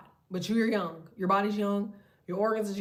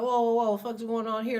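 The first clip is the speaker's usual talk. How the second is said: startled mock shout; 5 dB louder than usual. Catching spirits creeping up.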